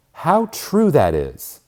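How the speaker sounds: a touch of eager exclamation; emphatic agreement. Retold or imitated. A woman eagerly agreeing with the author, exclaiming.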